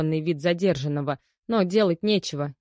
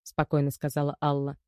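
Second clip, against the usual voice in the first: usual speaking voice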